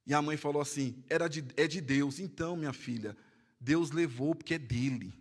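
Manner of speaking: hushed, grave quoting of the pastor comforting the mother; hushed retelling. Retold or imitated. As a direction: drop the voice low and soft as if at a graveside.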